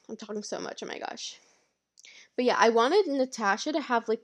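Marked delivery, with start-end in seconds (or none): 0.1-1.4 breathless whispered oh my gosh; whispered aside. Real, not acted. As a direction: whisper it to yourself, a little embarrassed. Muttered aside about talking too much.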